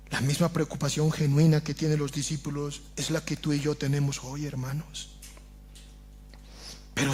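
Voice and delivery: softly pleading sermon voice; hushed preaching. Acted. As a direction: draw the congregation in, almost confiding. Soft intimate pleading stretch.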